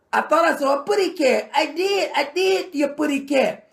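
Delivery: high, put-on cartoon cat voice, clearly not his own; mock the governor as a cartoon cat, then laugh. Ranting host mocks the governor as a cartoon cat, high put-on voice. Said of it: "that insane cartoon character".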